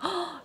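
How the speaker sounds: sharp, high gasp of sudden realization; a quick high "huh!" of shock; startled gasp. Retold or imitated. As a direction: act out a goosebump gasp. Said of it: "소름기 돋는 막".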